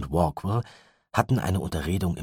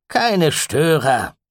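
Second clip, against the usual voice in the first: higher, louder, drawn-out irritated retort; irritated snap; 11 semitones higher, 9 dB louder, much slower than usual. A narrator's reading. Gideon snaps at the mother, irritated. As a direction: snap it back, annoyed. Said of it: "mit seiner üblichen raschen Gereiztheit".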